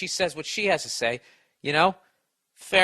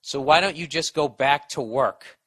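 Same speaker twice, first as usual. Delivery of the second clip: retold wife's complaint; 6 dB louder than usual. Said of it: "then she said".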